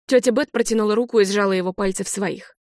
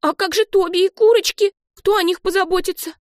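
put-on high, louder child's voice, anxious; a kid fretting over her pets; worried little girl; 11 semitones higher, 4 dB louder than usual. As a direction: Olive asking about the hens, high and worried. Olive worried about animals.

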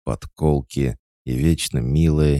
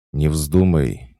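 slow, louder stern warning; displeased warning; 5 semitones higher, 5 dB louder, slower than usual. A narrator's reading. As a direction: warn him off, displeased. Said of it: "недовольно отозвалась Пуся". (недовольно, с нажимом)

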